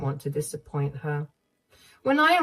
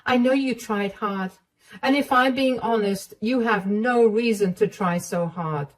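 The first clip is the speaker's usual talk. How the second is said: a touch higher, firm and kind; firm mother-in-law; 3 semitones higher, 3 dB louder than usual. Acted. Mother-in-law comforting Emma and condemning her son, firm. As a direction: reassure her, condemn him. Sarah scolds David, consoles.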